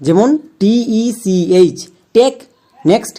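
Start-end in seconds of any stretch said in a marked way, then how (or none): 0.6-1.8 spelling letters out. Shown as a demonstration. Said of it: "কয়েকটি উদাহরণ দেখো".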